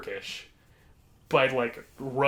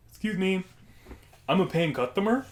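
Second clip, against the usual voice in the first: lightly voiced odd customer, pitched up; odd customer impression; 5 semitones higher than usual. Odd man addressing the counter worker, lightly put-on customer voice. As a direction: put on the man's voice, mildly indignant. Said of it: "this impression I'm going to do".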